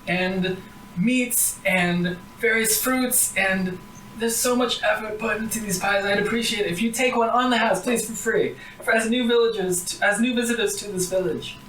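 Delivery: lightly voiced old granny, warm and eager; a hint of a quavering old woman. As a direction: offer the pies like a proud grandma.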